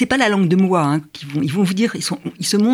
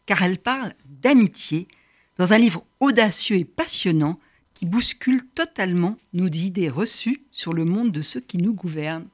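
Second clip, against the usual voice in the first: measured, lifted presenter's read; scripted radio introduction; 2 semitones higher than usual. Acted. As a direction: introduce the guest with deliberate, dramatic pacing. Host reads scripted show introduction.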